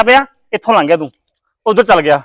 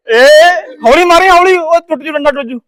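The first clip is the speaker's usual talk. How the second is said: higher-pitched, urgent plea to go easy; alarmed warning; 5 semitones higher than usual. Real, not acted. Host to player who may break the stick, alarmed warning. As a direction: warn him before something breaks.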